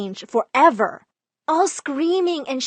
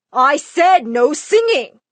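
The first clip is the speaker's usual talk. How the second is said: much louder angry dad yell; screaming dad; 4 semitones higher, 7 dB louder than usual. Retold or imitated. Dad screaming at his daughter to stop singing, much louder. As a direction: roar it through the door. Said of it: "Dad banged on my door screaming".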